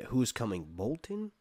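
steady read-aloud storytelling; reading the chapter to the camera; story narration. A narrator's reading. Viewer hears Theon's capture told, story narration.

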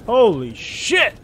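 slow, high drawn-out disbelief; stunned disbelief. Real, not acted. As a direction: stretch it out, amazed. Disbelief after win.

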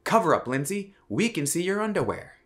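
high, mock-scandalized headline; mock tabloid headline. Quoting a tabloid's headline at the paper, high and mocking. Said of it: "The headline is".

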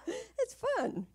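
laughing while speaking. Real, not acted. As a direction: let the laugh spill into the words. Laugh heard on line.

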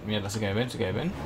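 hushed worried muttering. Real, not acted. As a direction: keep it down while sneaking. Sneaking, spotted by enemies.

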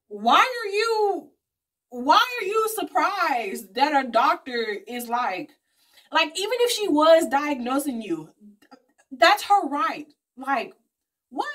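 stretched, shrill-sounding outrage at the aunt; incredulous disbelief. Retold or imitated. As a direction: ask it like you can't believe your ears. Her own retold outburst at aunt.

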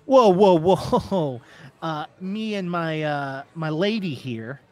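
lightly voiced gambler, startled then settling; placating gambler. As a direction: talk the bouncer round, hesitantly.

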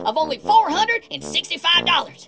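pushy infomercial pitch; hard sell ad. Acted.

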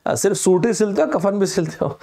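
lightly voiced sly taunt; a hint of a mocking character; filmy line, barely acted; movie dialogue. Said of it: "एक dialogue बोलते हैं कि".

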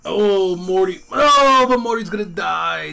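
high loud panic; panicked shout. Real, not acted. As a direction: cry out in alarm. Morty about to faint.

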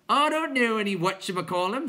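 high, loud creature objection; newcomer clown. A narrator's reading. Newcomer answering the others, high loud squawk. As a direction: squawk it out puzzled.

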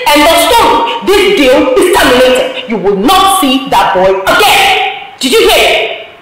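aunt forbidding her niece; stern forbidding. Acted. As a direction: lay down the law.

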